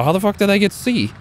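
high, strained disbelief; can't believe they took it; indignant high outburst; shocked disbelief. Real, not acted. Surprised base was captured.

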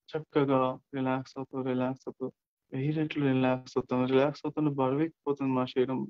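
steady, repetitive hypnotic suggestion; guided meditation. Acted. Tell listeners the body grows heavier, guided meditation. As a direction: lull them with evenly repeated phrases.

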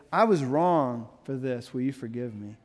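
mean every word, gently; sincere apology. Shown as a demonstration. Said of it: "aligns with love is".

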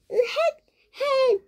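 short, acted little chuckles; pleased, stagey "heh" laughs; gleeful giggle. 돈을 지키고 웃음. (신나서 짧게 헤헷)

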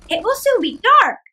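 put-on high, loud old woman voice; old woman to herself. Old woman talks to herself while trotting along. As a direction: muse aloud. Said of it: "she said to herself".

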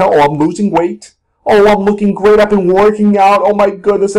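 put-on pleased dieter; mock self-congratulation. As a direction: gush lightly over your own progress. Acts out a delighted dieter.

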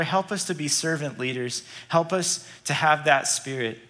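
soft, earnest prayer voice; heartfelt pulpit prayer; pastor's prayer. Acted. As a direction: pray over the congregation gently. Leads a closing prayer.

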